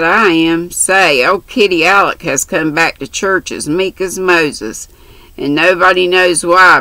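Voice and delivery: lightly voiced brash country girl; chatty, bold young girl. Mary's dialogue voiced.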